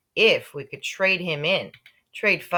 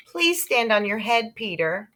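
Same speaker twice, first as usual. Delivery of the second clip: higher pleading mom; mother pleading; 5 semitones higher than usual. Acted. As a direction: beg him to do it. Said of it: "my mother said".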